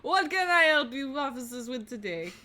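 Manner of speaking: lightly put-on French accent; French-accented polite offer of help. Housemaid offering officers help, French accent. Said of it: "doing a French accent".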